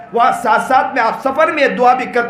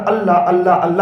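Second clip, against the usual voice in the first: prayerful calling; 4 semitones lower than usual. Shown as a demonstration. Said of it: "زیادہ بولتا ہوں". (دعا میں "اللہ" کو نرمی سے پکارنا)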